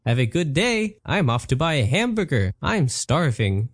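a genie cheerfully leaving the wolf broke; genie Patrick. Acted. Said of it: "he said".

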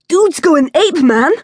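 high, loud mocking cackle; cackling kid. A narrator's reading. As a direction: laugh at him losing it. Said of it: "Lucas cackled".

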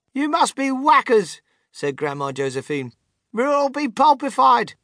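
put-on high, outraged old woman; alarmed protest. A narrator's reading. Grandmother objecting to the inventor's crash plan, high alarm. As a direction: wail it in dismay.

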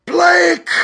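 high, loud cry in a changed voice; possessed cry of a name; strange possessed cry. A narrator's reading. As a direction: call out as if someone else speaks through her. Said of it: "Her voice changed suddenly".

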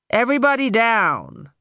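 unhurried, relaxed command; calm voice. A narrator's reading. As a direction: order everyone down without hurry. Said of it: "came a calm voice".

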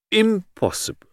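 high foreign detective, emphatic; Poirot, dismissive. Acted. Detective answers his friend's challenge, emphatically dismissive. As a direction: reject it outright.

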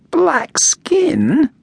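high incredulous whisper; disbelieving whisper. Acted. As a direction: breathe it out in disbelief. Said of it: "screwed up his face in disbelief".

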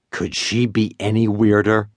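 usual speaking voice

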